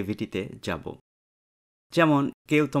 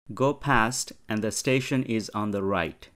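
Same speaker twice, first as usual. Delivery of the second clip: slow dialogue reading; much slower than usual. Shown as a demonstration. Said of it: "teacher reads dialogue slowly".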